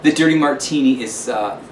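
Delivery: lightly voiced grand London hostess; a hint of a theatrical lady calling everyone darling; gushing host signing off with ta-ta; Lillian Lampshire. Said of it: "this is Lillian Lampshire from the luxurious lap of London".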